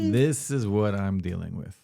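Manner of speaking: slow, drawn-out repeat for effect; deliberate, stretched-out exasperation; slow, emphatic complaint. Real, not acted. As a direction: spell out the complaint slowly.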